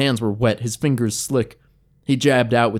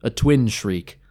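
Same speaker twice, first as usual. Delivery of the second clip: plain reading voice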